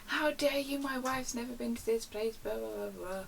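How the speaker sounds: hammed-up indignant rant fading into blahs; aggressive caller. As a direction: imitate an indignant husband kicking off. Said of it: "he was so aggressive".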